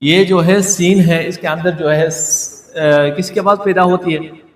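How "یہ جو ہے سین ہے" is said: سین said slowly with a drawn-out hissing s; demo of seen. Shown as a demonstration. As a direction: draw out the س in سین. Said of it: "جیسے دیکھیں، یہ سین ہے". (سین کی آواز کھینچ کر)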